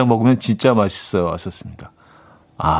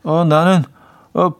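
put-on foreign accent Korean; 4 semitones higher than usual. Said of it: "외국인 친구가 이렇게 답했대요".

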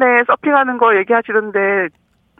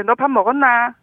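Gangwon dialect demo. Shown as a demonstration. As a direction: lift the Gangwon 나 ending. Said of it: "좀 나자를 높여서".

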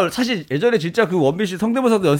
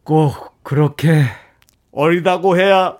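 slow, brooding film-hero line; Kim Rae-won impression; slower than usual. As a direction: drag it out like a sulky movie hero. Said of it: "김래원 씨 대사네요".

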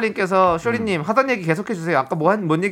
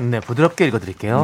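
lowered, gentle radio voice; soft gentle voice; 6 semitones lower than usual. Pretend. Host agreeing to read a listener's story, soft and low. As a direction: drop the pitch and speak smoothly. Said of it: "부드럽게 읽어주세요".

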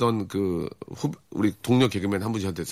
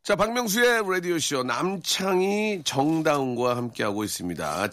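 radio host intro; 3 semitones higher, slower than usual. Acted. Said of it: "radio show opening".

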